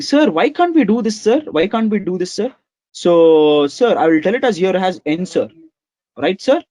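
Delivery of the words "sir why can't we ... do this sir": student asking. Retold or imitated. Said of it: "Guys, you must be telling".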